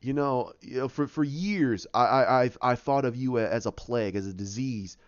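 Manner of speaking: lightly acted hesitant confession; Banner. Banner confessing to Hulk, halting subdued imitation. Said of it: "that's when he says".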